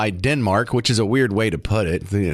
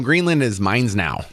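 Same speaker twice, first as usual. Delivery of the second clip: slow, clumsy attempt at a Greenlandic accent; badly faked Greenlandic accent; 3 semitones lower, slower than usual. Host jokingly claiming Greenland as his, in an attempted Greenlandic accent. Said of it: "That was my attempt at their accent".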